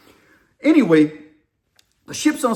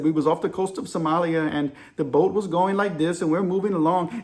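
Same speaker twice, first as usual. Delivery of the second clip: put-on a light, rough Indian accent; loosely imitated Indian sailor; poor Indian accent. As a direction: reenact it in an amateur Indian accent. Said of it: "I'm about to give you my poor Indian accent".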